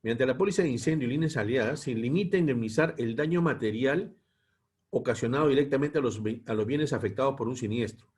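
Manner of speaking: measured lecture read-aloud in phrases; formal, evenly paced reading from a text. Real, not acted. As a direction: read the policy text out to a class. Reads the lesson text aloud.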